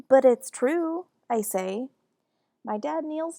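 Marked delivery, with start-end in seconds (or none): 0.1-1.1 loud, high protest; insistent. Acted. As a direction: blurt it out defiantly. Child insists against mom.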